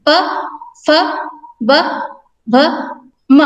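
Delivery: प फ ब भ म said one by one with pauses; teacher reciting प, फ, ब, भ, म, each letter alone; consonant recitation. Shown as a demonstration. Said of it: "इन व्यंजनों का उच्चारण करें".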